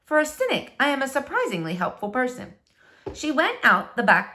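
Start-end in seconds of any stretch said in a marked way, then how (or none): 0.1-2.6 Flora's thought. Acted. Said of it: "she thought".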